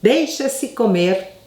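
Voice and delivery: slow, dismissive mock grandfather; a hint of a grudging old Sicilian. Grandfather grudgingly answering about the food, slow. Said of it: "Era o que ele respondia".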